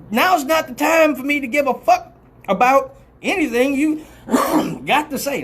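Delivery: high, worked-up comic scolding; emotional rant. Acted. Comic telling off a talking partner mid-act, emotional rant. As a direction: scold the talker with rising exasperation. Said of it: "I get a little emotional right now".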